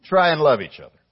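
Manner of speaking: mock suggestion. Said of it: "He did not say".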